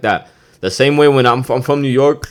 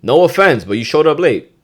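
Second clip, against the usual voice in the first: stern boss; 7 semitones higher, 7 dB louder than usual. Acted. Boss to a late worker, stern and loud. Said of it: "let's say you're a boss".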